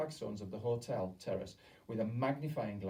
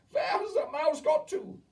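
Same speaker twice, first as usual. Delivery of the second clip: high, loud witch demand; 11 dB louder than usual. A narrator's reading. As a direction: bark it at the room. Witch searching for the mouse.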